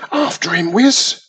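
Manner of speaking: put-on boy wizard shouting after the fleeing monster; shouted. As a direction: shout to the cousin to give chase. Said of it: "shouted Wizby to his cousin".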